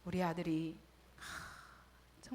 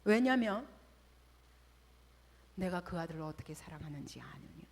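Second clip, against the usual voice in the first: firm, louder divine command; voice of God; 4 semitones lower, 3 dB louder than usual. Retold or imitated. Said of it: "하나님께서 뭐라 그러신 줄". (단호한 하나님의 음성)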